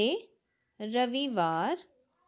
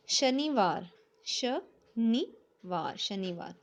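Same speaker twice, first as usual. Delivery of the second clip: slow dictation; much slower than usual. Shown as a demonstration. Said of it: "slow dictation reading".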